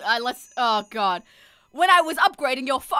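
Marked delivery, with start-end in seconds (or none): 1.7-3.0 loud, forward character read; louder attempt at a game character; wrong character voice. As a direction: put it on too hard. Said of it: "wrong voice".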